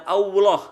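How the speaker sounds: "Allah" with a w in place of the double l; wrong Allah. Shown as a demonstration. Teacher showing the mistake to avoid, "Allah" as "auwloh". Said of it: "bukan Allah".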